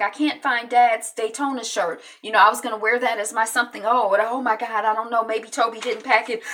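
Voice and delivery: retold mild panic; freaking out. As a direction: imitate someone fretting over something lost. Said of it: "she freaking out".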